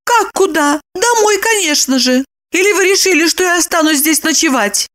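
high, incredulous woman; high, mildly indignant; high-voiced woman, a touch scandalised; Lipochka's voice. A narrator's reading.

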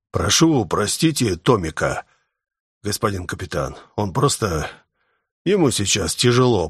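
Vsevolod pleading. Acted. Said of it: "произнёс Всеволод".

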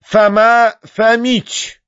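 high, slow, ceremonial herald; announcing. A narrator's reading. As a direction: proclaim the arrival, stretching the name. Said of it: "возвестил Видоплясов". (торжественное объявление)

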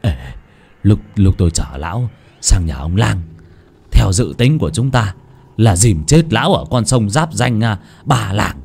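low, sly gloating voice; gleeful servant. Acted. Servant Tuất gloats to his lover about the plot. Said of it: "sung sướng mà bảo".

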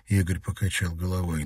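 usual speaking voice

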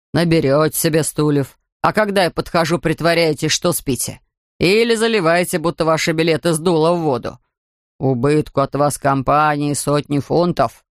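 lightly voiced grumpy beach attendant; gruff ticket man.

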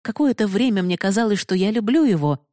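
plain reading voice

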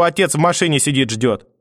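a hint of the old woman's voice; grandmother. Grandmother tells the mother the father is waiting, lightly voiced. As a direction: mutter it off.

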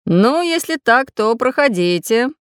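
courteous invitation. A narrator's reading. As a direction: invite them in politely, unhurried. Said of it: "любезно пригласил Самоделкин".

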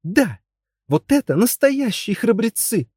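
high, excited princess cry; exclaiming. A narrator's reading. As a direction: exclaim it with admiration. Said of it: "воскликнула Брунгильда".

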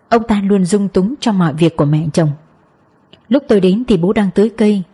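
plain reading voice

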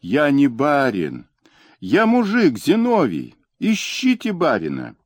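high, desperate yelling; frantic scream. A narrator's reading. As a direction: scream for your life, pleading. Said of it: "истошно закричал".

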